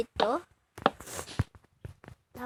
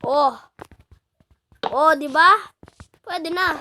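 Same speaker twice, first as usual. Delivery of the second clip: excited; 4 semitones higher, 9 dB louder, slower than usual. Real, not acted. Delighted at build result.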